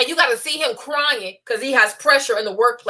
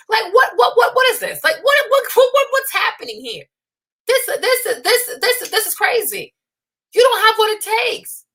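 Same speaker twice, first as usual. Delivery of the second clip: high, stammered what what; outraged disbelief; 7 semitones higher than usual. Real, not acted. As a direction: sputter in shocked disbelief.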